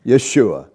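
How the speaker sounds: "Yeshua" said yeh-SHOO-ah, not Jesus; Hebrew name. Shown as a demonstration. Preacher correcting Jesus to Hebrew "Yeshua", careful pronunciation. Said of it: "Not Jesus".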